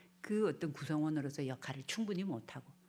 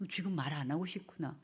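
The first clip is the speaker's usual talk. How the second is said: calm acknowledging. Shown as a demonstration. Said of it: "그렇게 또 읽어줘야 돼요".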